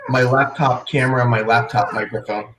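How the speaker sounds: muffled laptop mic sound; tinny and hollow, like through a bowl; inside a fishbowl. Real, not acted. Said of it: "That's why you sound like you're in a fishbowl".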